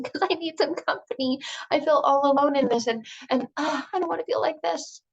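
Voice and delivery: hammed-up sad sack begging someone to join the pity party; whiny self-pity.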